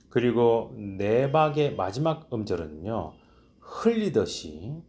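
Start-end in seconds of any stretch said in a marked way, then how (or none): 3.6-4.8 흘리듯이 stretched slowly, rising; drawn out. Shown as a demonstration. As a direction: let 흘리듯이 trail off slowly. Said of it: "소리를 흘리듯이 끊어줘야".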